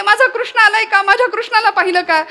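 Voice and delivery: distraught mother searching, pitched high; frantic mother Yashoda. Acted. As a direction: Yashoda asking everyone, desperate for her son. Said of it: "वेड्या पिशव्यासारखी धावत फिरतीये".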